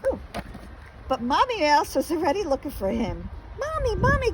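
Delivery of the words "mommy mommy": high, loud joyful calling out. A narrator's reading. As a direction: call out to Mommy, bursting with joy. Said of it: "called Little Mouse joyfully".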